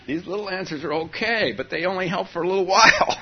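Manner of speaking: rising fast and eager; high excited voice. Retold or imitated. Voicing a practitioner's thoughts.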